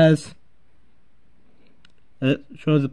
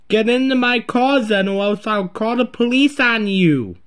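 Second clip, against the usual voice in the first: threat; 4 semitones higher than usual. Pretend. Driver threatens to call police.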